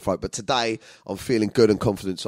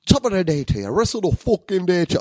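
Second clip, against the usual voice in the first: higher-pitched, badly faked Irish accent; 8 semitones higher, 3 dB louder than usual. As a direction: have a clumsy go at an Irish accent. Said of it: "I can't even do the accent".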